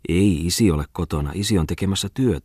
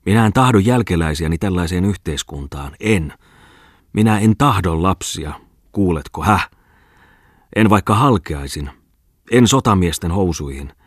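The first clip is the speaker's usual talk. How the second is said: put-on drunken rant. Bookseller ranting in drunken brawl.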